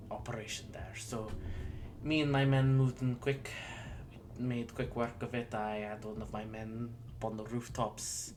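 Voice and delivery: lightly attempted Irish accent; an Irish lieutenant reporting, accent loosely held; vague Irish accent. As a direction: give Irish a vague try. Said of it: "has an Irish accent".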